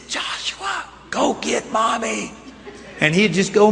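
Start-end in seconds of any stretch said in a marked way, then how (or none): 0.1-2.3 weak, hushed call, barely able to speak; strained whisper. Retold or imitated. Hurt father whispering to his toddler son for help. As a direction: push the words out through back pain, softly. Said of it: "I could just barely whisper".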